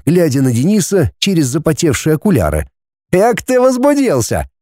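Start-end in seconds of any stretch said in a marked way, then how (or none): 3.1-4.5 high mocking smirk; smirking jibe. A narrator's reading. Denis mocking flustered Vadim, smirking. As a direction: needle him with a chuckle in the voice. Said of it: "усмехнулся Денис".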